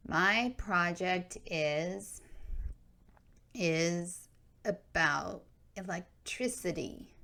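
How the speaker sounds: slow, halting mild whimper. Acted. Reluctant kid rehearsing for the camera, whimpering slowly. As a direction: barely get the words out, near tears. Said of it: "Adrian whimpered".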